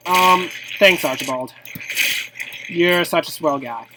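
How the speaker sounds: dry sarcastic thanks. Acted. Gamer sarcastically thanking Archibald for killing them, dry sarcasm. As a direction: thank him without meaning it. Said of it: "that was sarcasm".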